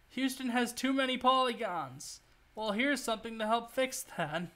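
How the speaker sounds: half-improvised ad read; infomercial pitch. Pretend. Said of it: "trying to sell it as an infomercial".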